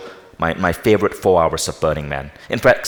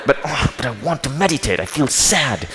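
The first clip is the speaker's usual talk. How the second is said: whiny plea; 6 semitones higher than usual. Retold or imitated. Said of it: "And I go".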